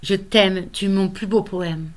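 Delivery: measured verse with emphatic key words; earnest poem recitation. Acted. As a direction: recite a solemn vow, pausing between lines. Reads own poem aloud.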